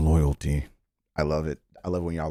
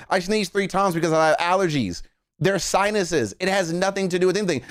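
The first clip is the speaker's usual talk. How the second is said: mock exasperation; 9 semitones higher than usual. Acts exasperated star answering fan theories.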